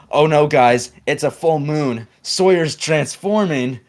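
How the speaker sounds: high, slow, hammed-up warning; mock alarm. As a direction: draw out a fake werewolf panic. Dramatises mock werewolf caption.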